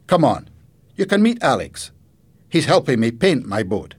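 loud, lifted inviting question; grandfather character, inviting. Acted. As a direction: offer an outing as the storybook grandfather. Grandfather invites Jenny along.

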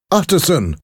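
high, loud cry of a name. A narrator's reading. Jekyll cuts in on his friend the lawyer, crying out. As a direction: call out urgently, pitch leaping up. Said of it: "cried Doctor Jekyll".

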